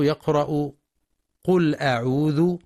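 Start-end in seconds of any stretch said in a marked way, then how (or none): 1.4-2.6 قل أعوذ with the hamza of أعوذ softened away; قل أعوذ as "qul a'udhu" with a weak hamza; hamza like wasl. Shown as a demonstration. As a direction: slide from قل into أعوذ as if linking. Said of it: "كأنها همزة وصل".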